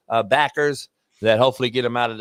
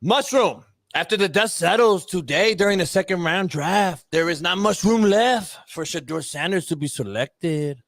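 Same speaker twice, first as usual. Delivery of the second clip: higher-pitched mock Mexican accent; put-on Mexican accent; 5 semitones higher than usual. Host redoing the Mexican word of the day, in mock Mexican accent. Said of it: "That's a little better 'cause you have the accent".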